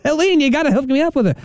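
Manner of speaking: imitating George.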